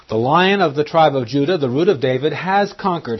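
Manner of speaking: loud, rising proclamation of the conquering Lion; proclaiming loudly. Acted. Preacher to his congregation, a loud triumphant proclamation. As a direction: ring it out in triumph from the pulpit.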